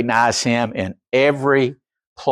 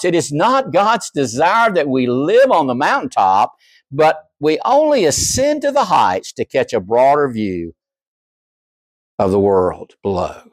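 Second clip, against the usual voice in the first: quoted theologian. Retold or imitated. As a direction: read it out with weight. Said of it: "He said".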